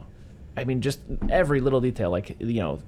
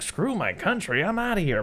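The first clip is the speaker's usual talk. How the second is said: cowardly Kent; 9 semitones higher than usual. Retold or imitated. Kent fleeing the blast.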